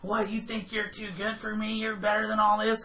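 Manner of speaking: high-pitched indignant imitation of her; mock pissed off. Prostitute to a reluctant customer, pissed off. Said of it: "gets all pissed off".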